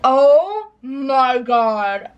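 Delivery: drawn-out, rising wail of embarrassment; flustered squeal. Real, not acted. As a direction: stretch it out, climbing into a high squeal. Flustered before confessing secret to friend.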